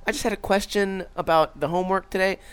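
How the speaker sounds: fake innocent parent question. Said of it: "I'd be like".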